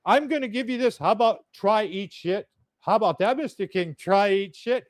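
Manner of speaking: mock a man who can't cuss; imitating the angry foreign priest's clumsy insults. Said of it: "He did not know how to cuss".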